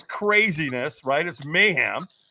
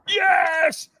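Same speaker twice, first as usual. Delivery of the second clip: high-pitched drawn-out scream; screamed yes; 4 dB louder than usual. Retold or imitated. Firewalker screams back at the trainer, retold all-out yell. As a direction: give everything on one long yell. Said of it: "and I screamed".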